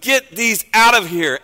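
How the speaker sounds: acted angry order; exclaimed command. Preacher voicing Jesus to the dove sellers, exclaimed command. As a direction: order them out with force. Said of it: "Exclamation mark".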